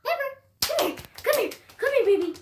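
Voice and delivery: high sing-song call to a puppy. Real, not acted. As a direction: coax the puppy over sweetly. Calling the puppy over.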